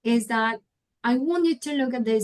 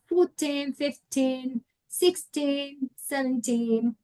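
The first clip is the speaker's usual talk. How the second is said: put-on "fourteen", "fifteen", "sixteen", "seventeen" with a strong final teen; stress on TEEN; 3 semitones higher, 3 dB quieter, slower than usual. Shown as a demonstration. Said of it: "teen at the end of the word".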